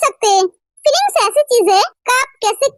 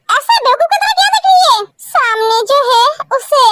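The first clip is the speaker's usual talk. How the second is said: angry scolding. Acted. Brother scolds sister for staring.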